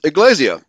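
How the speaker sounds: "iglesia" as ee-GLAY-see-uh; Spanish pronunciation. Shown as a demonstration. Host showing listeners the Spanish, "iglesia" stressed on GLAY. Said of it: "in Spanish".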